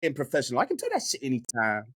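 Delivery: light hood gangster swagger; a touch of West Coast gangbanger; Leroy voice. Pretend. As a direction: toss it off like a street tough. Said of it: "can I hear the voice?".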